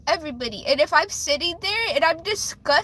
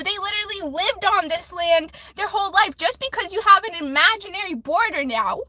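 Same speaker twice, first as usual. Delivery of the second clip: heated rant; 3 semitones higher than usual. Real, not acted. Angry rant about deportation.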